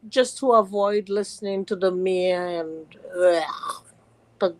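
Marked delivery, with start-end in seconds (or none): 3.2-3.8 real groan of disgust; drawn-out, revolted ugh. Real, not acted. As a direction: let out a grossed-out ugh. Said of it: "it's disgusting".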